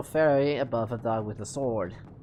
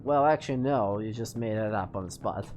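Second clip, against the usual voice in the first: normal talking voice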